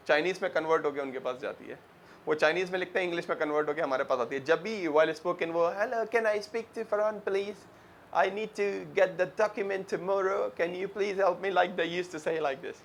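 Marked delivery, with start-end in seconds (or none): 5.7-11.5 imitating a Chinese English speaker, slow and careful; Chinese-accented English, drawn out word by word. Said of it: "I like the Chinese accent also".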